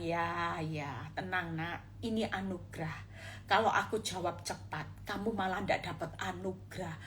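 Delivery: put-on gently calm a frightened child; soothing voice of God. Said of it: "Tuhan bilang".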